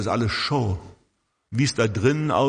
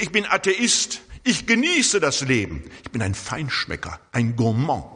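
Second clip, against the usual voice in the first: cheerful, self-assured. Retold or imitated. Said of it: "Das sagt er richtig fröhlich und selbstbewusst".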